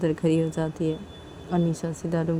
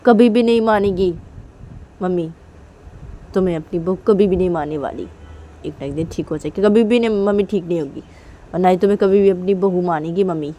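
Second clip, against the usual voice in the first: mild mock stern mother, louder on never; quoting stern mother; 4 dB louder than usual. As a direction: echo the mother's refusal with a bit of force. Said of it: "mummy ने बोला ऐसी".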